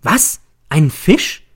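high, loud burst of disbelief; shocked, high-pitched questioning yell; startled cry. A narrator's reading. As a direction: jump up and exclaim it. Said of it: "Ich schnelle empor und schreie".

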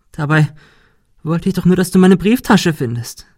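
hohe, weinerliche Stimme; weinerlich klagend. A narrator's reading. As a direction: jammernd wie ein hilfloses Kind. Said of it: "Monika weinte". (Monika klagt Ben weinerlich an)

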